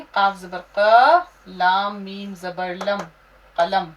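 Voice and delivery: slow spelling. Shown as a demonstration. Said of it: "देखिए कैसे लिखेंगे".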